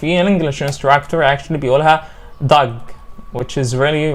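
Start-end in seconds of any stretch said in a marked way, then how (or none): 2.5-2.7 DOG with a short vowel like "dug"; wrong vowel demo. Retold or imitated. Teacher quoting an English instructor's mistake, mispronounced short DOG. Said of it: "really wrong".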